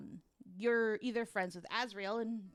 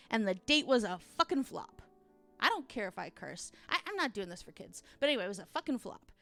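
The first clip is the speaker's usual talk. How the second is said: wild unhinged ranting; 3 dB louder, faster than usual. Real, not acted. Ranting about the failed date.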